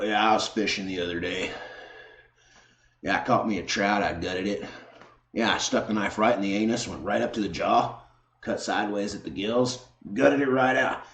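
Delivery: lightly voiced fishing braggart, a bit soft; mock butch woman. Butch chick recounting a fishing trip, lightly mimicked. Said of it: "you're sitting there like this".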